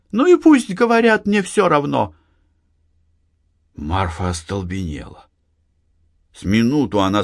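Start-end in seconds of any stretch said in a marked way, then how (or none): 0.1-2.1 high desperate outburst; blurting out. A narrator's reading. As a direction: blurt it out in despair. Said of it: "отчаянно махнула рукой и выпалила". (выпалила с отчаянием)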